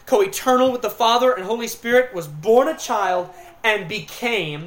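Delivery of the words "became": "became" drawn out slowly with weight; stress on became. Real, not acted. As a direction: lean on "became" and stretch it. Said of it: "notice I'm emphasizing the word became".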